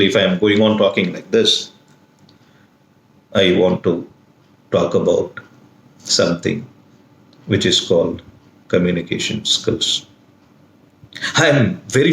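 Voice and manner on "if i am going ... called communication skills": monotonous. Shown as a demonstration. Teacher showing students how boring no intonation sounds, monotonous. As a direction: drone it out with no intonation. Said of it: "It will be so monotonous".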